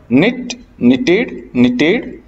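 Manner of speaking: "निट, निटेड, निटेड" starting on a plain N sound; "निट, निटेड, निटेड" recited slowly, K left silent. Shown as a demonstration. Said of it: "निट में जो के है वो silent".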